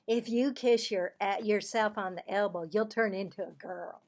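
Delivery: loud, bright schoolgirl telling a secret; Cassie's voice. Acted. Girl telling Marvin a playground rumour, loud and eager. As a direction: play the know-it-all girl, loud and sure.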